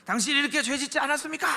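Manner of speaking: quick, pointed accusing question; lightly mocked sharp-voiced prosecutor. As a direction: glare and jab the question like a prosecutor. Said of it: "날카로운 목소리로".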